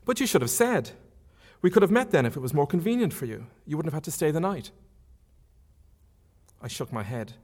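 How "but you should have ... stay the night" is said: put-on young woman's voice, higher, lightly protesting; reader's higher Marion voice. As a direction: lift the pitch for an eager young lady.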